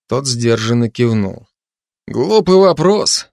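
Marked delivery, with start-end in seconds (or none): 2.1-3.3 wry grimace. Acted. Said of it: "скривился Рут".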